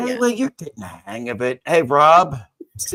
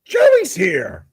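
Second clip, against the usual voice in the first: tag; 14 semitones higher, 8 dB louder than usual. Acted. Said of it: "echoing the puppet greeting".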